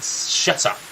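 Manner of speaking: hushed shut up. Acted. Embarrassed by a compliment.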